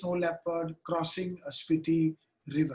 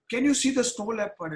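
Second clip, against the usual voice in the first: mild shout, higher than usual; half-raised voice imitating a guide's shout; retold shout; 4 semitones higher, 4 dB louder than usual. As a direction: call out the question like an excited guide, not at full volume. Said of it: "just shouted".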